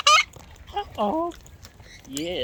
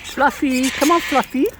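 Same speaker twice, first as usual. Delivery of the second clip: high, louder sing-song call to a bird; 8 semitones higher, 4 dB louder than usual. Real, not acted. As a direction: coax the bird over in a high calling voice. Calling a bird to come over.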